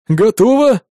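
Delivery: loud glad exclamation; exclaiming. A narrator's reading. Balnik calling up that the knot is done, glad. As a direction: call out the win. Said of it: "воскликнул Бальник".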